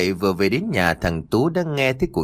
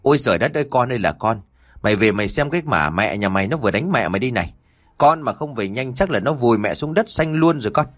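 wailing mother; faster than usual. Acted. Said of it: "miệng bù lu bù loa".

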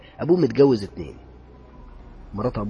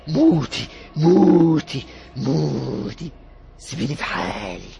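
much higher and much louder, desperate pleading; terrified young man screaming; 5 semitones higher, 9 dB louder, much slower than usual. Acted. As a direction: scream at the ghost begging it to die. Youth strangling repeating die. (شاب مرعوب بيصرخ في العفريت بصوت عالي جدًا)

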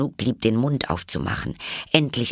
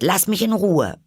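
put-on high young girl's voice, worried; a lost little girl fretting over her hands; Alice, bewildered; 11 semitones higher, 5 dB louder than usual. A narrator's reading. Alice voice, held figure.

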